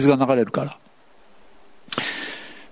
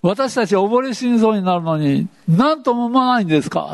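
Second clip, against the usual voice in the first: reproachful plea; 5 semitones higher than usual. Retold or imitated. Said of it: "こんなこと言います？".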